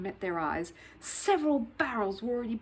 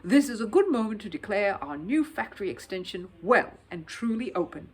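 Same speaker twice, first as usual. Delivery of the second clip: booming; 5 dB louder than usual. Acted. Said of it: "he boomed".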